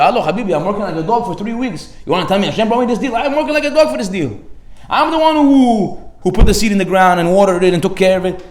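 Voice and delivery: indignant protest. Retold or imitated. Businessman refusing to credit Hashem, indignant. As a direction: push back, insulted.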